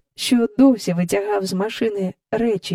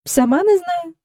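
unperturbed; 10 semitones higher than usual. A narrator's reading. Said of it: "незворушно".

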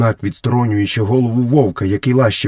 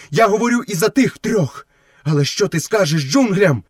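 high, solemn, measured wolf voice; wolf pledging loyalty; 9 semitones higher than usual. Acted. Wolf swearing to share Mowgli's trail, solemn and high. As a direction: declare the oath phrase by phrase, high-pitched.

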